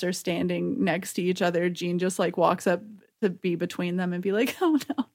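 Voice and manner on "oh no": high, hammed-up distress; mock crying. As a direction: wail like a melodrama heroine. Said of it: "Jean just shows up and cries".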